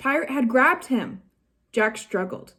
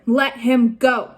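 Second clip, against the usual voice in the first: stern demand; 6 dB louder, slower than usual. Acted. Annie attacks pirate.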